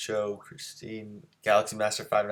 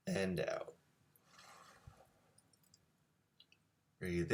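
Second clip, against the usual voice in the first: guided breathing; 4 dB quieter than usual. Real, not acted. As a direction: lift on "in", drop softly on "out". Leads a breathing exercise.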